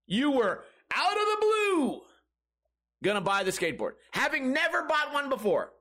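high, emphatic sarcastic rant; exasperated sarcasm. Real, not acted. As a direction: hammer home the mock amazement, pitch climbing. Sarcastic retort to commenters.

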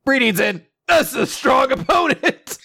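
high, drawn-out cartoon villain voice; Nappa. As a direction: stretch it out in a high put-on voice. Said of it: "and then Nappa's like".

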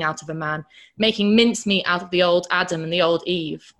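loud, forceful tirade against the modern world; ranting. Retold or imitated. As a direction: rant it out, hammering each line. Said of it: "in one of his rants".

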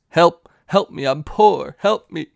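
high-pitched movie-quote plea; Bridesmaids quote. Retold or imitated. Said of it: "That's from, uh, Bridesmaids".

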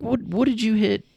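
high, indignant demand; older brother squaring up to the bully, voice pitched high; confronting the bully. Retold or imitated. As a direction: go at the kid for hitting your brother. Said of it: "I'm like".

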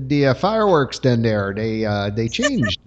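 slipping into a Minnesota Fargo accent. Real, not acted. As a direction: Minnesota Fargo vowels, drawn out. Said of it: "Why am I speaking like Fargo?".

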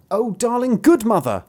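eager pleading bairn; begging child. A narrator's reading. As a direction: wheedle mother in a high voice. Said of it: "they begged for the pancake".

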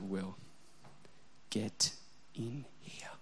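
wife whispering his name, clearly angry; ominous whisper. Retold or imitated. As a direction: whisper it like trouble is coming. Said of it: "The whisper, the quieter it gets".

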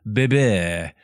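put-on Bébé with a French accent, drawn out; French pronunciation. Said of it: "like the French pronunciation of baby".

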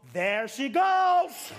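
slow triumphant shout. Acted. Preacher proclaiming the healing, slow triumphant shout. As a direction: call it out slowly, rejoicing.

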